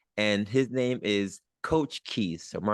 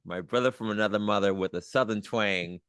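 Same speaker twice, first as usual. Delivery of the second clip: emcee announcement. Acted. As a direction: boom it out like a show host. Host announces guest like emcee.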